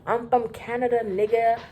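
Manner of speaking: mock-defiant drunk boasting; hammed-up rowdy brag about Canada; drunk guy's boast. The drunk guest taunting the cops, mock defiant. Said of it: "He just kept saying".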